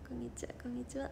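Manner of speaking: whispered creaky edge voice; vocal fry. Shown as a demonstration. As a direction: creak through a breathy greeting. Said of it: "エッジボイスかなんか". (ささやくようなエッジボイス)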